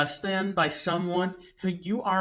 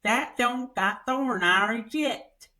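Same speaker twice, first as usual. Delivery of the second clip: lightly voiced small-town woman, a bit slow; a light take on her mumble, higher; imitating the woman; 5 semitones higher, slower than usual. Teller quotes the Redbox woman's first answer, lightly voiced. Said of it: "She goes".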